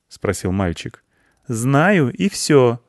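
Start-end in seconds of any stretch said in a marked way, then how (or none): 1.5-2.8 higher, firm reply; stern girl. A narrator's reading. Anya cuts off the boy's doubts, stern. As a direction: shut the question down sternly. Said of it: "строго ответила Аня".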